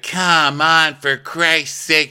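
mock exasperated phone caller; impatient boss. Sandy demanding Hospital Norma on the phone, high mock impatience. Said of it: "And she's like".

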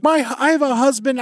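high, huffy retort; mock old lady. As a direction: imitate the lady's snooty reply. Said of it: "she's like".

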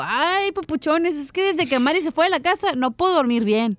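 dejected. Acted. Piolín telling his friends why he can't sleep, mildly dejected. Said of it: "Bien agüitado".

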